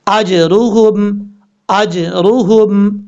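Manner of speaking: अजरुहुम slow, jeem bounced without a vowel; correct qalqala. Shown as a demonstration. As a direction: recite अजरुहुम slowly with a clean qalqala. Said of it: "कैसे?".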